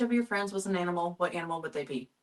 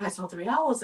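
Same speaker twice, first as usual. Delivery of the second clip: mildly hammed-up excited announcement; retold excitement; 3 semitones higher, 5 dB louder than usual. Telling husband about the owl sighting, mock-excited announcement. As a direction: announce it louder, like big news. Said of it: "I was so excited".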